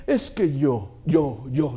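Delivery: low-pitched mock bragging; boastful mimicry. Preacher mocking believers who boast of themselves, low self-important mimicry. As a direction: put on a low voice for the show-off. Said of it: "no venga a chicanear y decir".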